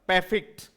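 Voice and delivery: परफेक्ट said as "PE-fikt", no r; correct pronunciation. Shown as a demonstration. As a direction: model परफेक्ट as "pefikt". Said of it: "ये इसका transcription होता है".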